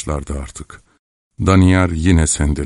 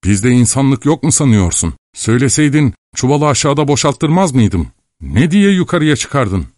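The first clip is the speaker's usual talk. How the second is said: high-pitched indignant scolding; exasperated shouting; 7 semitones higher than usual. A narrator's reading. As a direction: climb higher with each reproachful question. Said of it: "diye bağırdı". (giderek tizleşen sesle çıkışarak)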